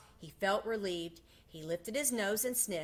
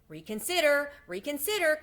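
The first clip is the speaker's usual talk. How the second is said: high, loud pleading cry; goose crying out; 7 semitones higher, 5 dB louder than usual. A narrator's reading. Goose's last plea to Wilbur, high loud cry. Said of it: "cried the goose".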